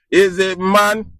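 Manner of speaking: half laughing as he asks his viewers again; laughing question. Real, not acted. Laughing while asking viewers who solves problems.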